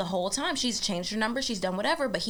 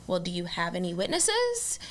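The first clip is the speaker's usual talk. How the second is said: 1930s beat cop; 4 semitones lower, 3 dB quieter than usual. Retold or imitated. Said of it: "great old-timey cop voice".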